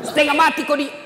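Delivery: wife's scolding jab retold laughing; mock scolding. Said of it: "Langsung datang mamanya".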